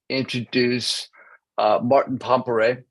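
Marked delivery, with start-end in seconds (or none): 1.8-2.8 Pompere said as pom-puh-RAY; tentative surname pronunciation. Real, not acted. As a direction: end Pompere on an "ay" sound. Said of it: "did I get your last name right".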